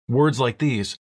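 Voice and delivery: usual speaking voice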